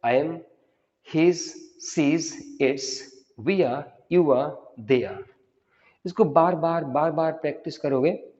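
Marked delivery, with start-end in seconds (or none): 0.1-5.2 slow, linked I am, his, she's; practice drill. Shown as a demonstration. Teacher running one more practice round. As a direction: repeat the short forms steadily. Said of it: "एक बार फिर से practice कर लेते हैं".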